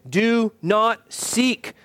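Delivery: DO, NOT, SEEK, each word separately stressed; measured prohibition with weight on each word of "Do not seek"; emphatic command. Real, not acted. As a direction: space out "Do not seek" deliberately. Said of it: "Why do I emphasize this".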